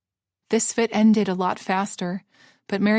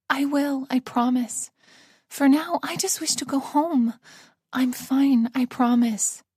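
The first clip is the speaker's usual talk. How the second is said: lightly voiced frail old woman; a hint of a tired old lady; 5 semitones higher than usual.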